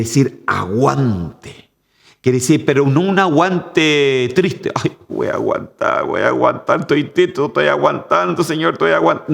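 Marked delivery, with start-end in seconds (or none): 4.7-9.3 whiny sighing complaint, mocking the sad believer; mock sad endurance. Preacher mocking a sad believer's whining endurance. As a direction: parody a gloomy believer grumbling. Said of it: "No triste, pues, hermano".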